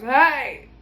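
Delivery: loud commanding hey; mock bark of hey; sharp hey. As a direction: call a dog to order. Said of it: "I do with the dogs".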